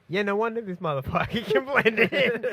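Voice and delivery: high laughing disbelief; laughing incredulous exclaim. Retold or imitated. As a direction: squeal it out in amused disbelief. Mock self-quote about Bruce lookalikes.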